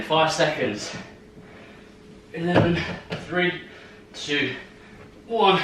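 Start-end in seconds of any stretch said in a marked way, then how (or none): 2.3-5.6 shaking with effort. Real, not acted. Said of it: "My legs are shaking like a shitting dog".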